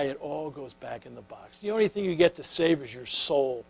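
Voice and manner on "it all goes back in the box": softer, with the weight on "it"; quiet punchline. Real, not acted. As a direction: drop the voice to land the lesson on "it all goes back in the box". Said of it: "Baby, when you die".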